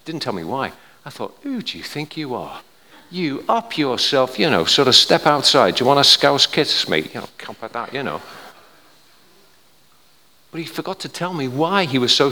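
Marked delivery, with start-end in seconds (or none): 1.4-7.1 indignant mock challenge, building louder; mock aggression. Preacher replaying his thoughts at a cocky stranger, mock aggression. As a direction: act out squaring up for a fight.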